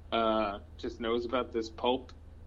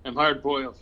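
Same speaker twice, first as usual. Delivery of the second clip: louder hard-boiled tough guy; noir detective; 6 dB louder than usual. Pretend. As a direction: punch it like a gruff detective. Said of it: "Tough guy".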